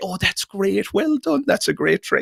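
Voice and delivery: put-on very high, patronizing, condescending baby-talk tone. Recalling learning magic as a child, imitating adults praising a trick in a mock-condescending childlike tone. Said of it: "in that condescending, childlike tone".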